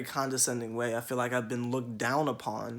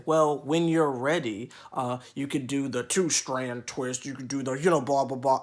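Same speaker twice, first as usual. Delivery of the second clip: mock condescending advice; 3 dB louder than usual. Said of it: "who will say".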